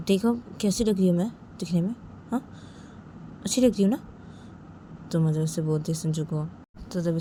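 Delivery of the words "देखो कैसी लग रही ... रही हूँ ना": lightly voiced young wife, slightly raised; Uma asking for approval. Wife asks Sanju how she looks, lightly voiced hopeful questioning. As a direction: ask hopefully, with a light lilt.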